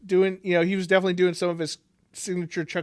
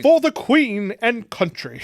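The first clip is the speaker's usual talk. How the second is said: high, loud mock British-Georgian accent; 6 semitones higher, 5 dB louder, slower than usual. Co-host mocks actor's patriotic line, British slash Georgian accent. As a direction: declaim slowly in a muddled British-Georgian accent. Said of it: "doing a British slash Georgian accent".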